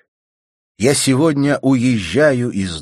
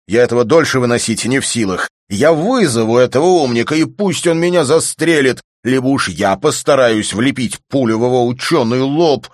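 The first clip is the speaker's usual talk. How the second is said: fast, loud, higher angry outburst; furious shouting; 6 semitones higher, 8 dB louder than usual. Acted. Volyntsev raging to his friend about Rudin, furious shout. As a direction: rant in a rising fury. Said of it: "Как можно так кричать?".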